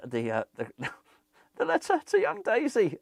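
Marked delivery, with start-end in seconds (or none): 1.6-3.0 lightly put-on Santa voice; a hint of Santa reading a letter; half-hearted jokey Santa impression; Father Christmas. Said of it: "It will be actually Father Christmas".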